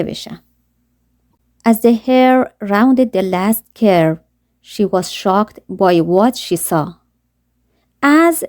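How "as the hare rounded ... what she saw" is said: put-on slow, careful read-aloud of a children's story; slow storybook narration. A narrator's reading. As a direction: read each word slowly for learners.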